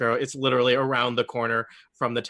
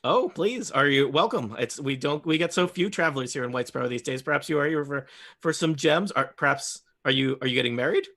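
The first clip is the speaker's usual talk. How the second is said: lightly voiced gnome shopkeeper. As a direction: chatter nosily at the customers as a small merchant.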